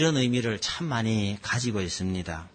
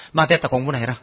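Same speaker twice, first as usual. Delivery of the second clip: curt father; 3 dB louder, faster than usual. Retold or imitated. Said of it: "그럼 아버지 뭐라 그럽니까?".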